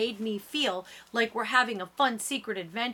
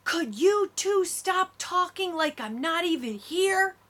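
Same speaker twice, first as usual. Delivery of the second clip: high-pitched exasperated outburst; shouting mad; 10 semitones higher, 4 dB louder than usual. A narrator's reading. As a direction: burst out, fed up with being ignored. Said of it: "Isabella shouts".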